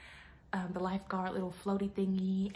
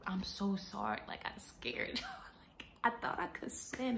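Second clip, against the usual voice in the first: laughing apology; 4 dB quieter than usual. Retold or imitated. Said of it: "I'm like".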